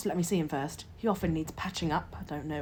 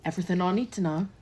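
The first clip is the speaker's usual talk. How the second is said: fast, cold, curt reply; coldly; faster than usual. Acted. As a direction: shut him down, icy. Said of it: "Matron replied coldly".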